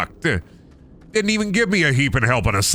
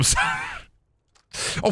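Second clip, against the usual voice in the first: startled laugh squeak; 4 dB quieter, much faster than usual. Real, not acted. Startled by game event.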